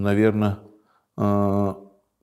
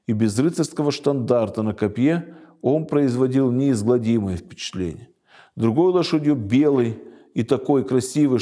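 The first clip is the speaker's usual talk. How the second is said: brisk, lively storytelling read-aloud; story narration; faster than usual. A narrator's reading. Teacher reading a fantasy tale to listeners, story narration. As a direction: read the tale out with lifted phrase openings.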